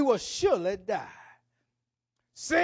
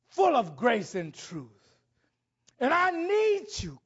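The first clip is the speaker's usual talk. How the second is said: preaching at full force; 3 semitones higher than usual. Acted. Preacher voices the leper's plea.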